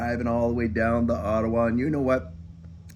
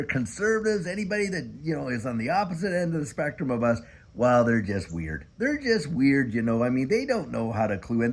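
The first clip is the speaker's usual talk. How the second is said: sing-song mocking voice, pitched up; mocking the critics. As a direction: parody the other side's smug message. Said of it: "And the narrative is this".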